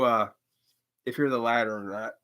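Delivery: usual speaking voice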